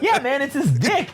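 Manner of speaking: high, drawn-out, laughing insistence; mock insisting. Friends setting the naive kid straight, laughing insistence.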